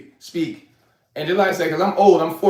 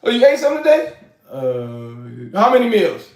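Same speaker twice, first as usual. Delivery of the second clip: bright caring question. Shown as a demonstration. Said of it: "this is how I talk".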